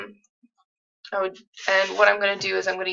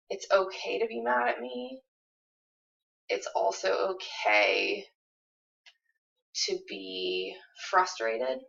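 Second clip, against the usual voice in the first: gentle reassurance as husband. Shown as a demonstration. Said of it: "if I was Kyle, I would say".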